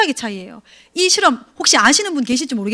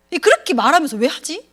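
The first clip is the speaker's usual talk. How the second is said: ordinary talk, nothing marked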